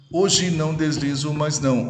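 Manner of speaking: "hoje não deslizo mais não" recited in measured syllables; syllable counting. Shown as a demonstration. Teacher showing an eight-syllable verse, metrical reading of "hoje não deslizo mais não". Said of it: "oito sílabas".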